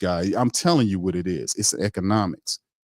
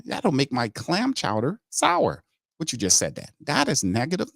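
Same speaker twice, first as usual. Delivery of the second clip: mock brass voice; 5 semitones higher than usual. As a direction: drag it out, lampooning the general manager. Repeats the mock line.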